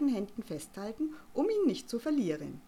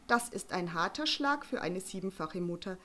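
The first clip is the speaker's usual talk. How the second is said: mock outrage. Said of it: "mit gespielter Empörung".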